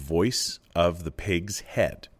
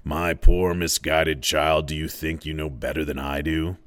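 schoolmaster. Acted. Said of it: "spoke in the voice of a schoolmaster".

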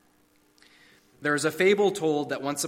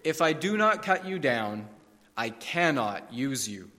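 graver still. Acted. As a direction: let the last words sink heavy. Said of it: "the master's voice grew graver still".

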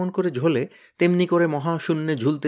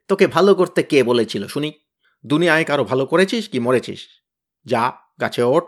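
bared-teeth scolding, a bit louder; snarling; 5 dB louder than usual. Acted. Tenida snarls at Kyabla to climb the tree, snarling. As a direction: snap at him through clenched teeth. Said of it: "দাঁত খিঁচিয়ে টেনিদা বললে".

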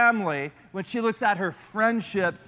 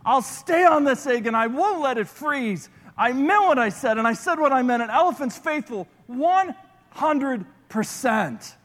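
determined Horton; 4 semitones higher than usual. Acted. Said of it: "said with his teeth".

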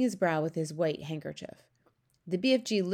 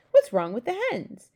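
loud, higher question; indignant demand; 7 semitones higher, 7 dB louder than usual. A narrator's reading. Queen questioning her servant about eggs, loud demand. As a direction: break in loudly, pitched up.

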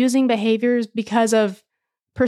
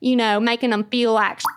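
put-on Southern accent; faster than usual. Host explaining Southern goodbyes to co-host, mock Southern. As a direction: play up a folksy Southern twang. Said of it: "we go into Southern".

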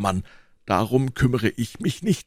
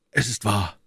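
composed, slightly lowered voice; calm admission. A narrator's reading. Athos conceding to D'Artagnan, calm and composed. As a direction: admit it evenly, without stir. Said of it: "sprach er gelassen".

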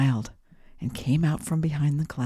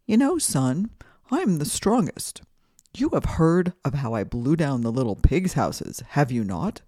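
proud, blustering wind voice; boastful wind. Acted. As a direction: play the bragging wind.

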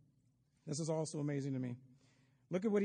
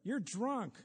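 mock shout; 7 semitones higher, much slower than usual. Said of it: "she shouted out above the crowd".

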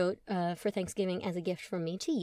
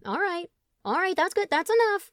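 rising alarm, getting louder; warning shout; 10 semitones higher, 5 dB louder than usual. A narrator's reading. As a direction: stop him before the glass overflows. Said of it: "warned Tom".

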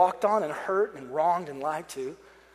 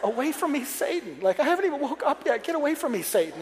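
higher-pitched, comic rebuke of Satan; mock rebuke; 6 semitones higher than usual. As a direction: play a half-awake, exasperated banishing. Comic rebuke on being woken.

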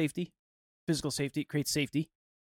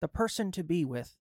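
a hint of a gentle grandpa giving advice; old man voice; 6 dB quieter than usual. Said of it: "With my old man voice".

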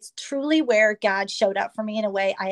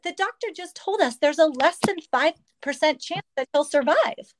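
retold desperate plea; 6 semitones higher than usual.

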